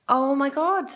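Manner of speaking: starstruck squeal, high and loud; excited. Retold or imitated. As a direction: gasp it out, thrilled. Starstruck at Mary Berry.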